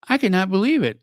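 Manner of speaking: disbelief. Real, not acted. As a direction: lift "I cannot believe it" in real astonishment. Repeats line, second more emphatic.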